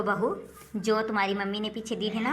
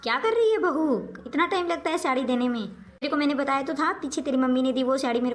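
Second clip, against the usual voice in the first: angry scolding call; 3 semitones higher than usual. Acted. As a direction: demand to know what's taking so long. Mother scolds slow daughter-in-law.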